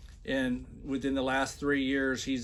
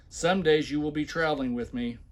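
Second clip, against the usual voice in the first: mock emphatic reading. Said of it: "when I put heavy accents and shout".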